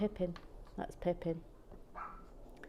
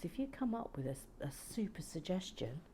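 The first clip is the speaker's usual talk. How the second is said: whisper; 6 dB quieter than usual. Real, not acted. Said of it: "confiding aside".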